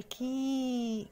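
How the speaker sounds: كي held long as "kee"; kasra sound. Shown as a demonstration. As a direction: stretch the i vowel of كي, softly. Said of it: "يبقى دي اسمها كسرة".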